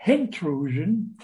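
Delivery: "intrusion" slowed, with an H sounded before it; added Cockney H. Shown as a demonstration. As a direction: say "intrusion" as "hintrusion". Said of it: "they add an H where it doesn't belong".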